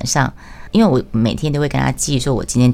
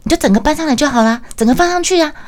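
imitated yelling; 12 semitones higher than usual. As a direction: mimic him shouting across the stall. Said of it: "在那边大吼大叫讲说".

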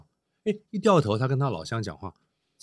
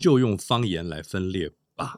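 slow, lower, pointed advice; earnest admonition; 3 semitones lower than usual. Real, not acted. Panelist repeats the warning about dialects, earnest admonition. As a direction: draw it out as a weighty word of counsel. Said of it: "我这句话是语重心长的".

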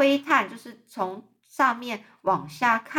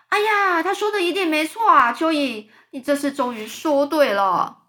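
much higher, loud yell; shouting; 6 semitones higher, 4 dB louder than usual. Acted. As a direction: yell it out excitedly. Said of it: "蜈蚣就大叫说". (蜈蚣兴奋地高声大叫)

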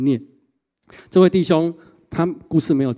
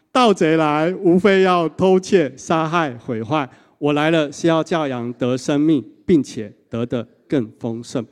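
measured group recitation of the verse; reading scripture aloud; 2 semitones higher, slower than usual. Real, not acted. Preacher leading the congregation in reciting the verse. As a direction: read it out together, steady and deliberate. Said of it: "好，一起来。".

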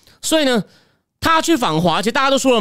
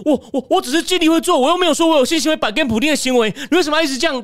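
mock flustered Biden; 3 semitones higher, faster than usual. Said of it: "还冲回来暴走，说".

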